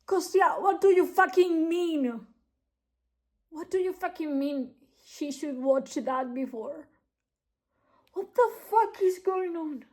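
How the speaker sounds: loud, high, upset shouting at a character; real outraged disbelief. Real, not acted. Reader shouting at a character about the twist, outraged disbelief. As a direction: demand answers, half shouting.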